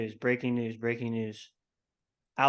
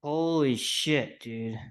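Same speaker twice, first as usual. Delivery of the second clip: awestruck disbelief; 3 semitones higher, much slower than usual. Real, not acted. Podcaster absorbing the coach's retirement, awestruck disbelief. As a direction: let it sink in, stretching the first word. Still stunned by the news.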